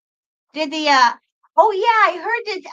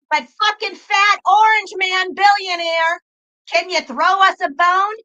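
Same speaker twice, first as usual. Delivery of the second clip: louder, exasperated shout at Trump; frustrated shout; 2 semitones higher, 5 dB louder than usual. Real, not acted. Streamer pleads with Trump for stimulus money, frustrated shout. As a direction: vent it, half begging half yelling.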